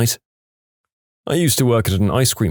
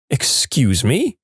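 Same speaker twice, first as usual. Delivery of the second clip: stern questioning; 3 semitones higher, much slower than usual. Retold or imitated. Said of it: "My co-teacher says".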